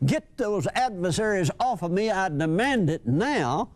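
a lightly voiced squeaky widow, insistent; squeaky demanding widow. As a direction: nag him with a thin, squeaky demand. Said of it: "she could hear that squeaky voice saying".

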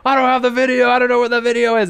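very high, loud, fast panicked yell; yelling back. Retold or imitated. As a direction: imitate a director yelling back, pitch way up. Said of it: "I hear Spencer yelling back".

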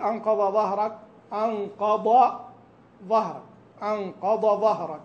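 "أنقض ظهرك" with ض and ظ blurred into one sound; merged dad and zha. Shown as a demonstration. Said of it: "لا تقول". (خلط بين الضاد والظاء)

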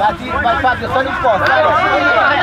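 loud sharp order to push up; sideline yell. Real, not acted. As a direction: bark it across the pitch. Yelling at player to push up. (urlo al giocatore)

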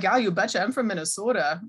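lightly put-on Minnesota accent. Shown as a demonstration. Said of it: "concentrate to speak like that now".

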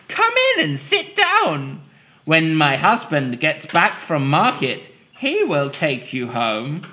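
lightly voiced kindly old woman; a hint of a sweet old lady; old woman's voice. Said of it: "said the old woman".

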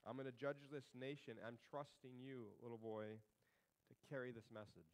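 a touch of a solemn God voice; grave voice of God. Acted. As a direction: speak the judgment gravely, hushed. God speaks to little Samuel.

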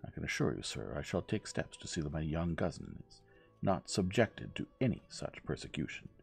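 mildly biting reproof; measured, understated bite. Acted. Old lady vowing to protect her young cousin, mildly biting. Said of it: "in a biting tone".

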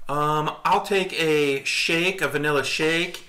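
mimicked unhurried dessert order; imitated kid ordering. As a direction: retell a kid taking their time ordering. Retelling a child's dessert order.

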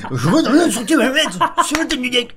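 high, loud words through laughter; laughing hard while talking. Real, not acted. Laughing while mocking teammate.

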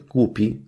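głupi with the Masurian softened ending, said as głupsi; Masurian pronunciation. Shown as a demonstration. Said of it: "czyli po mazursku głupsi".

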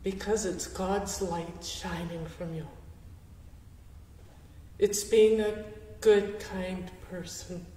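holding back tears, quiet and tender; getting emotional. Real, not acted. Answering the question about yellow, getting emotional. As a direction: voice softening with real emotion. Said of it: "I'm sorry I'm getting emotional".

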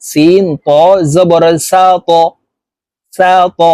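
"সা ত" with a pushed, echoing bounce on ত; "সা ত", the stopped ত released with a bounce; qalqalah bounce. Shown as a demonstration. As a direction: bounce the ত of "সা ত" upward with a little push. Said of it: "ধাক্কা দিয়ে পড়তে হবে".

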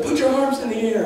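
high-pitched imitation of calling out; mock urging call. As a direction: act out a brother urging over the ride. Brother urging him on the ride.

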